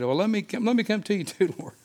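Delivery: mock disciples asking to come, laughing; laughing mock request. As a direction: tease the timid disciples with a laugh. Mocking other disciples, laughing.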